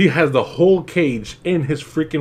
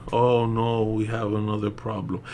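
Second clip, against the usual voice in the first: soft, unbothered, trailing down; mock calm; 3 semitones lower, 6 dB quieter than usual. Mocking the actress with another problem, calm and soft. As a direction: shrug it off quietly. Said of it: "You're gonna be that freaking calm?".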